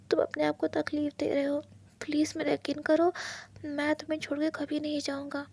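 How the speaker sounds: soft, anxious coaxing; calm him down gently; Wing begging to treat the wound, softly; gentle pleading partner. Acted. Wing reassuring Wang.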